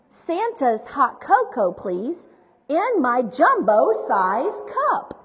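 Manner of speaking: measured picture-book reading with bouncy stress; story reading to children. A narrator's reading. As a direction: read it out playfully, phrase by phrase.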